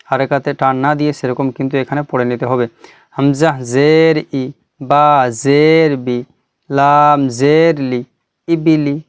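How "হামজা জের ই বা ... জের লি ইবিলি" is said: letter-by-letter chant ending in a short, even ইবিলি; unstretched endings. Shown as a demonstration. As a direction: spell out measuredly with short ই, বি, লি, then join as ইবিলি. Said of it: "যেরকম পড়েছি বিনা টানে".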